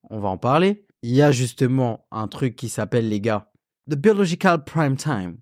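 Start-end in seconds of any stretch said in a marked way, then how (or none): 3.9-5.4 voix de présentateur télé américain. Pretend. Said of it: "avec une voix de présentateur télé, euh, américain".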